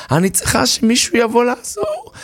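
high, desperate pleading; a panicked woman begging for a strong man; frantic woman. Acted. Woman pleads with onlookers to lift car, frantic.

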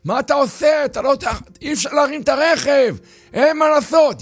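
high, urgent yelling; crowd shouting. Acted. Bystanders yell at Jacob to stop, high alarm. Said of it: "צועקים לו".

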